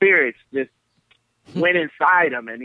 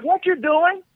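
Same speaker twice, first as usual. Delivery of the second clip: high calling voice from another room; granddad calling; 14 semitones higher, 3 dB louder than usual. Retold or imitated. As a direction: call the name up high, a room away.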